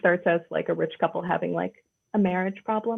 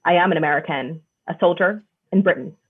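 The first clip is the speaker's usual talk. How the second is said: stilted standard American, slightly mocking; lightly parodied RADA-trained American accent; drama-school American accent; 2 semitones lower than usual. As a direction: imitate a British actor's careful American. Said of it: "their standard American from rada".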